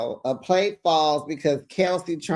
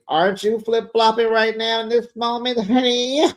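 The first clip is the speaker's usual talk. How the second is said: higher, teasing challenge ending in a rising "honey?"; sassy callout; 6 semitones higher than usual. Real, not acted. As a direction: call her out with sass. Calling out Liz.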